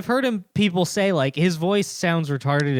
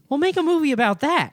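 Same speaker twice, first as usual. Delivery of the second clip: mock sarcastic quip; 9 semitones higher, faster than usual. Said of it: "being like".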